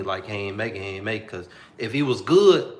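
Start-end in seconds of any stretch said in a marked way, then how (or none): 0.3-1.3 inner voice. Retold or imitated. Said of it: "like someone was telling me".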